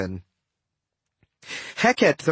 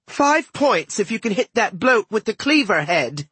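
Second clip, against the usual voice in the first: put-on excited higher-pitched girl's yell; screaming; 6 semitones higher than usual. A narrator's reading. Sister screams targets to the driver, excited high yell. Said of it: "Sadie screamed".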